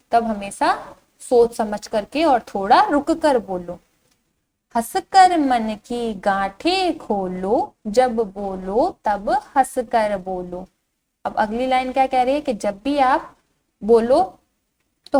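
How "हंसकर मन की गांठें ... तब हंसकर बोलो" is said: slow, singsong verse reading; drawn-out, lilting children's poem; poem recitation. Shown as a demonstration. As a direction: recite slowly to a class, stretching the vowels. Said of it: "इस कविता को पढ़ना शुरू करते हैं".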